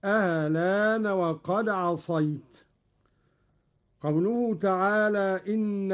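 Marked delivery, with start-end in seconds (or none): 0.0-2.6 slow recitation, short eased opening on الآن; الآن with a softened hamza, no stop after ل; tashil with naql. Shown as a demonstration. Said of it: "وفيها التسهيل مع القصر".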